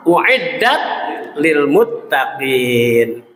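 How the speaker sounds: slow, drawn-out melodic Quran recitation. Acted. Preacher recites the verse to the congregation, slow melodic chant. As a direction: chant the verse slowly, stretching every vowel.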